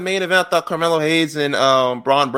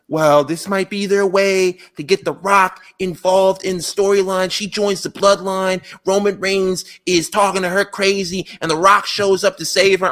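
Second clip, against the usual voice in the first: mock fan speculation; 4 semitones higher than usual. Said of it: "they were like".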